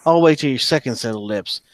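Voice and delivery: a high, hammed-up enraged yell; furious yelling. Wounded fighter yelling after the one who fled, raging. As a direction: scream threats at the fleeing enemy. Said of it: "She's yelling".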